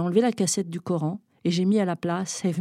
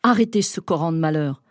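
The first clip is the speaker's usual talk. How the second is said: cried out; 4 dB louder than usual. Acted. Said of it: "Je ne sais pas pourquoi j'ai crié".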